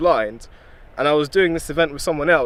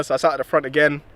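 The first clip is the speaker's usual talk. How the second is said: usual speaking voice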